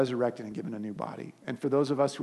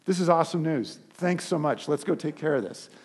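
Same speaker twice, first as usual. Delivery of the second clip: overjoyed reaction; 3 semitones higher, 6 dB louder than usual. Pretend. Pastor imagining reacting to his brother rising, excited. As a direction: gush like the best news ever. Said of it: "I would immediately go".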